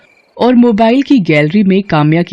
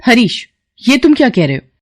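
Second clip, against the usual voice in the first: higher, scolding teacher voice; stern teacher Kamya; 5 semitones higher than usual. Acted. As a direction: tell off a distracted student. Kamya reprimands Harish. (ऊँची आवाज़ में डांटती teacher)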